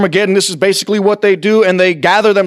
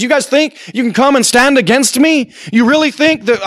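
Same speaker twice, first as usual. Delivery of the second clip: higher-pitched sarcastic challenge; mock sarcasm; 5 semitones higher than usual. Preacher voices God taunting those who oppose him, sarcastic. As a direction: throw it out as a scornful, disbelieving question. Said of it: "that's some sarcasm. He says".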